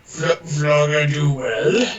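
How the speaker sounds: slow, disorientated delivery; groggy, halting troll. Acted. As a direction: slur it slowly, as if dazed. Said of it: "He says in very, like, groggy".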